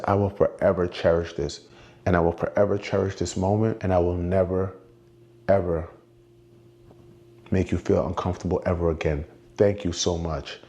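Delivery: low-pitched, earnest retold vow; solemn gratitude. Fan thanking the performer for a keepsake, low solemn vow. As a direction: imitate a fan's heartfelt promise, pitched low.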